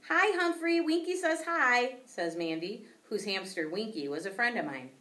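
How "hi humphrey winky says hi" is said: high, loud cheery hello; excited greeting. A narrator's reading. Old classmate greeting the class hamster, high and loud. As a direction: greet him brightly.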